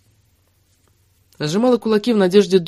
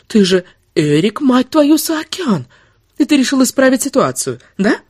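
high-pitched, indignant taunt; angry sarcasm; 9 semitones higher, 3 dB louder than usual. Acted. Woman taunting the lover who deceived her, angry. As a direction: throw their name back at them, climbing high. She mocks him in a quarrel.

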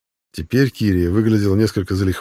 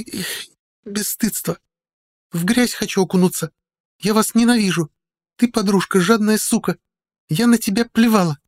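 put-on drunk; 13 semitones higher than usual. A narrator's reading. Drunk Kiria rant.

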